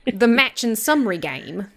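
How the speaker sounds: very slow mock Southern drawl; terrible Southern accent. Host introducing the game, drawn-out mock Southern accent. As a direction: stretch it out in a bad Southern accent. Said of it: "do a terrible Southern accent".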